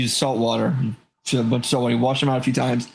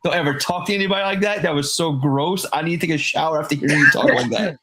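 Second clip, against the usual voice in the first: laughing scold; 4 semitones higher than usual. Retold or imitated. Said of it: "I'm like".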